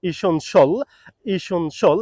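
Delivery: ইসনশল said i-SEN-shul, reduced vowels; correct pronunciation. Shown as a demonstration. Teacher modelling essential for learners. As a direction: model the short form. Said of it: "সঠিক sound হবে".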